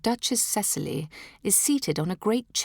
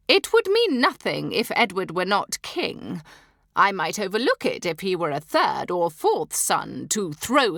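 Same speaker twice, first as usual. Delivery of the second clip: cold threat; 3 semitones higher, 3 dB louder than usual. Acted. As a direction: threaten to disown her son. Duchess threatens.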